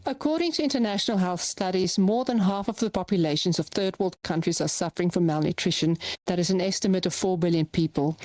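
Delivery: a plain, level voiceover read with nothing stressed; flat unemphasized read. Shown as a demonstration. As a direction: read the copy evenly with no emphasis on any word. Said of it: "but I'm not gonna put emphasis".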